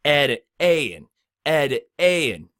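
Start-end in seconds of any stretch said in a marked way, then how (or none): 0.1-1.1 slow demo. Shown as a demonstration. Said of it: "words that start off with that A sound".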